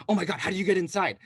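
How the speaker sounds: quick mock-panicked question; mildly panicked, hurried imitation; retold panic. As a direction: imitate someone starting to panic. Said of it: "then they started to panic".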